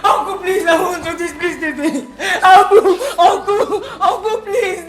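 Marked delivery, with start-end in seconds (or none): 2.4-3.8 shouting. Acted. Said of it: "I'm not shouting again". 4.0-4.8 desperate shouted uncle, please; shouting. Acted. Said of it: "I'm not shouting again".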